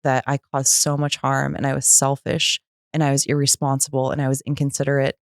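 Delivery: subdued, earnest amends; sincere apology. Retold or imitated. Woman making amends to her ex-husband, heartfelt and restrained.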